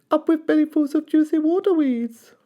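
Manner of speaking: high, hooting dinosaur chant; high cheerful duckbill hoot. A narrator's reading. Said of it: "they hooted".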